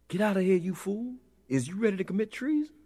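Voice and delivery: very high, blaring cry; trombone-voiced scream. A narrator's reading. Trombone-like voice ordering the fool out, screamed. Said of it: "voice of trombone timbre screamed at me".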